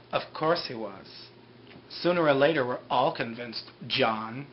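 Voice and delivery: lightly acted knowing pronouncement; solemn retold reply. Retelling Ben's solemn reply to Jack.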